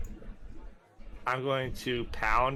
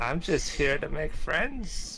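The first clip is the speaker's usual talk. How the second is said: put-on slow sweet old lady voice; sly granny, slowly; creepy old lady; 5 semitones higher, slower than usual. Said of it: "the speaker's creepy old lady".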